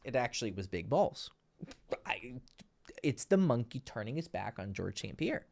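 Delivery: ordinary delivery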